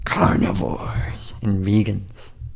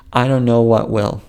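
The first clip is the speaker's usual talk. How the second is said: ordinary talk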